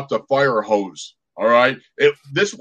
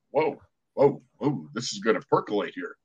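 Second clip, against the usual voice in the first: quoted wary aside; 5 semitones lower, 8 dB quieter than usual. Retold or imitated. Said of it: "I was like".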